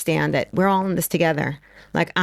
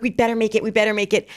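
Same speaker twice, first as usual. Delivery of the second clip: raised, anxious urging to herself; urgent hurry; 4 semitones higher, faster than usual. Retold or imitated. Mother racing to catch the soldiers' truck, urgently. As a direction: push to beat the clock, pitched up.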